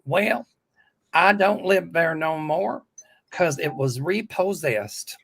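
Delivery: slow, drawled put-on character voice; Auntie Mel. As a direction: stretch it out as a mock excuse to a caller. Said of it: "Do pull an Auntie Mel thing".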